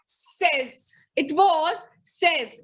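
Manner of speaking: "says" as sez, slow and falling; right pronunciation. Shown as a demonstration. Teacher introducing a word, says slowly said as sez. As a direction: rhyme says with fez. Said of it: "it is not says".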